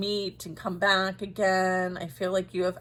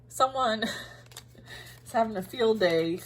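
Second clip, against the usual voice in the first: laughing; 3 semitones higher than usual. Real, not acted. Laughs mid-sentence.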